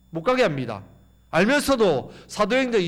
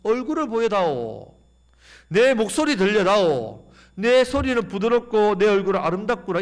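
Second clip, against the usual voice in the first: loving invitation; 3 semitones higher, 4 dB louder than usual. Pretend. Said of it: "그렇게 사랑으로 말씀합니다".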